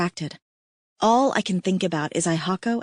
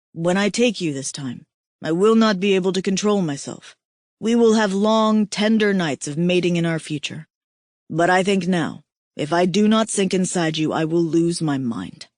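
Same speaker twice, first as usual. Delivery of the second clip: lightly voiced aroused male mate. Aihako to Kira, lightly voiced, aroused and intense. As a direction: voice the mate barely holding himself back.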